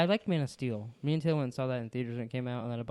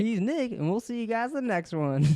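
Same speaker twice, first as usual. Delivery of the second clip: much higher, slow, hammed-up cowboy host; cowboy announcer; 9 semitones higher than usual. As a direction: boom it out like a rodeo announcer. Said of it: "How come I sound like a cowboy".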